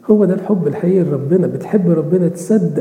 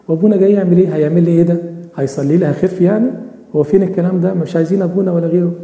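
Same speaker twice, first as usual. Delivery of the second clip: mock scornful complaint. Dying woman scorns the priest.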